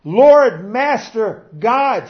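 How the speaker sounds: high, loud desperate cry to the Lord; a woman crying out to Jesus for help, loud and high. Acted. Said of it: "she cried out".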